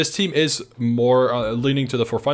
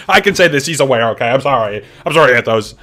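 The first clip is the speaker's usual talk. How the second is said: loud, giggly sorry through laughter; laughing apology; 4 semitones higher, 9 dB louder than usual. Real, not acted. Laughing loudly while apologizing to Anthos on stream. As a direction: blurt it out laughing, half-guilty.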